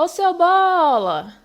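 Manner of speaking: high, loud call stretching the bo of bola; long stressed BO. Shown as a demonstration. Teacher calling bola to reveal its stressed syllable, bo drawn out loudly. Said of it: "a gente falou por mais tempo".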